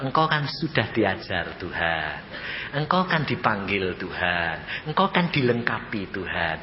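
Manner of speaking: lightly voiced low deceiver; Satan posing as God. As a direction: recite as a solemn false Jesus.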